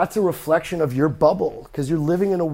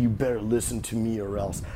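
stern dictator; 7 semitones lower, 6 dB quieter than usual. Retold or imitated. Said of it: "go in with an iron fist saying".

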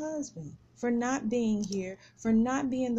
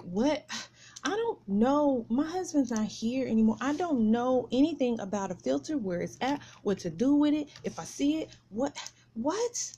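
mildly exasperated, emphatic protest; retold upset. Woman to caller about a filter she knows nothing about, upset. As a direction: retell a flustered objection with rising disbelief. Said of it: "I was just upset at the moment".

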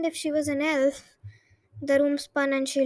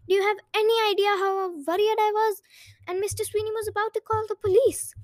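scolding; 4 semitones higher than usual. Acted. Mother scolds worried daughter.

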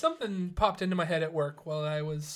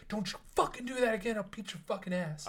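mock yell; 3 semitones higher, 4 dB quieter, faster than usual. Shown as a demonstration. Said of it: "If he yelled at me".

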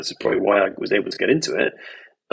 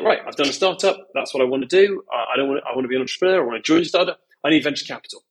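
eager startup founder; 2 semitones higher, faster than usual. Retold or imitated. Investor imitating all these startups, lightly mock-eager. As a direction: lightly mimic a founder, pitched up and rattling along.

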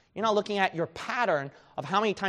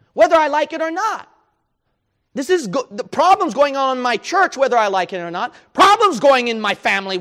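loud, higher preaching voice, building; fiery preaching; 4 semitones higher, 9 dB louder than usual. Acted. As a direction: preach it hard to the church. Preaching at full force.

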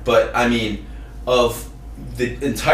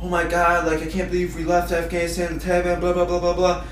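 higher-pitched mimicry of social media outrage; lightly mocking, raised-pitch monotone; mock outraged poster; 5 semitones higher than usual. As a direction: rattle off a mock lament, trailing into blahs. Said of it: "every single white woman was just posting about".

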